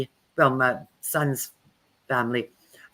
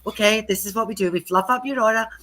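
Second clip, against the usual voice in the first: lightly higher, soothing healer voice; 4 semitones higher than usual. Retold or imitated. Calming a frazzled friend while fluffing her aura, lightly higher and soothing. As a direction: coax them like a gentle healer. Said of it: "fluff up their aura and say".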